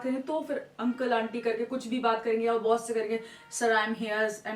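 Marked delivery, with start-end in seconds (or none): 3.5-4.5 formal to boss. Shown as a demonstration. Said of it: "formal language में आ जाएंगे".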